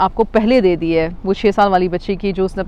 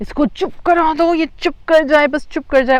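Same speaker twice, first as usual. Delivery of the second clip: high, raised mock inner scream. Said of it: "your brain is screaming".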